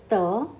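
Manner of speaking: "the" as French te, "tuh"; unaccented French E. Shown as a demonstration. Teacher reading T E without accent, "the" said "tuh". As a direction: say "the" with a hard t and schwa. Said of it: "without accent is".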